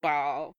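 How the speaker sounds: "ball" said with a Southern vowel; Southern pronunciation. Shown as a demonstration. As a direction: say "ball" the Southern way, as a sample word. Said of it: "I do say ball like a Southerner".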